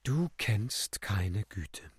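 slow, drawn-out motherly reproach; motherly, deadening. A narrator's reading. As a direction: deaden each word with slow, banal motherliness. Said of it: "mütterlich banalisierend, abtötend". (langsam, mütterlich abtötend)

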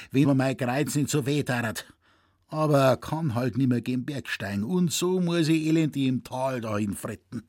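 put-on a grumbling old poacher lamenting his back; old Zecherl grumbling to young Franz; old Bavarian hunter. Narrator voices old Zecherl.

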